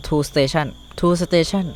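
"tool station" stretched very slowly, word by word; drawn-out reading. Shown as a demonstration. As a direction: read the name off the screen syllable by syllable. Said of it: "slowly reading item name". (อ่านช้าๆ ลากเสียง "tool station")

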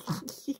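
soft, stifled snicker; little suppressed giggles; imitated snickering. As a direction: snicker quietly, trying not to be caught. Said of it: "snickering away".

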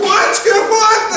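high, loud, startled "what" back; startled reply. Retold or imitated. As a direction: answer like you were caught off guard. Deckhand answers the shout.

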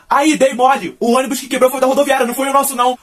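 high, loud shout from a bus window; friend shouting. Retold or imitated. Friend on the passing bus shouting to the narrator, loud and teasing. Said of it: "gritar assim".

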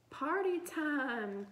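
high, loud, stretched-out whoop; excited cry. A narrator's reading. Boy celebrating the class running itself, crying out. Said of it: "Tim cried".

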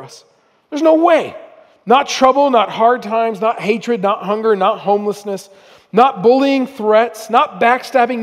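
reading scripture. Acted. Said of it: "how the Apostle Paul says this".

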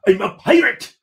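high, loud indignant protest; defiant outburst. Acted. Captain rejecting his mate's therapy talk, loud and indignant.

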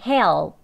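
"Help" with the dark L fully sounded, like "heh-ol-p"; volledige L-klank. Shown as a demonstration. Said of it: "오 하는 소리까지요".

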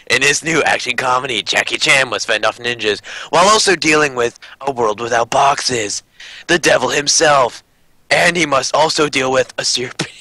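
lightly hammed-up trailer announcer; movie trailer voice. Reading out the card answers in a mock trailer voice. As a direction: sell it like a film trailer. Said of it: "movie trailer voice".

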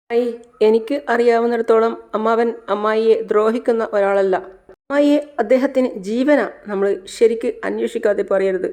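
put-on a girl rushing in, calling out in worry; young niece. Megha voiced in the story.

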